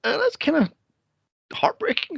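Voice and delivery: high-pitched cooing reaction; mock sympathy. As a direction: coo it high, as if touched. Own reaction to sad scene.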